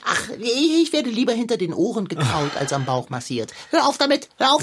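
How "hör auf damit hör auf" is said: protesting. Acted. Cat protests tummy massage.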